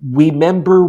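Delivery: high, bouncy Remember, the R softened toward a W; a toddler chanting Remember with a lisped R; childish Remember. Retold or imitated. Three-year-old son dancing around his dad: Remember with R like W. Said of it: "because he couldn't say his R's".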